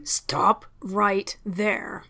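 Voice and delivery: slow, even, controlled command; quiet and even. Acted. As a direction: hold your temper and stop her calmly. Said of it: "He spoke quietly and evenly".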